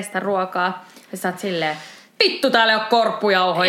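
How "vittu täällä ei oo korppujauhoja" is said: mock exasperated cry, a bit louder; frustrated outburst. Tired cook finds no breadcrumbs, exasperated outburst. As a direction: blurt it out in annoyance. Acted outburst over missing ingredient.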